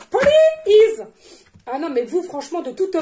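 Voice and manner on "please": high plea. Real, not acted. Pleading to spirit guides.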